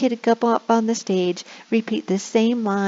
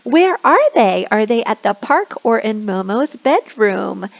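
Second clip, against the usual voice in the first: excited praise; 3 semitones higher, 4 dB louder than usual. Shown as a demonstration. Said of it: "So you can be like".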